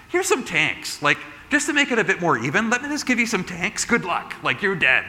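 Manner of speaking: high, sarcastic mocking offer; mock taunt. Imagined state taunting us over tanks, high mocking sneer.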